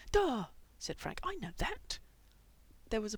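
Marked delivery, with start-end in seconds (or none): 0.1-0.5 loud, high, exasperated jab; scornful retort. A narrator's reading. 1.2-2.0 high, indignant comeback; exasperated retort. A narrator's reading.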